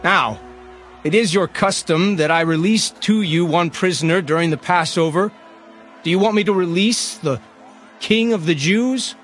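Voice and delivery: public address. Acted. Pilate addresses the gathered crowd, projected public address.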